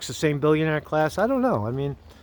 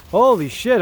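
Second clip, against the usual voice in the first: higher, louder disbelief; stunned; 5 semitones higher, 4 dB louder than usual. Real, not acted. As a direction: repeat it louder in shock. Shocked news reaction.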